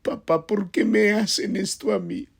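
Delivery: mock tearful kid blaming mom and dad; whiny crying child. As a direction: whimper it like a scraped kid complaining to his parents. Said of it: "se sienta en el sofá llorando y dice".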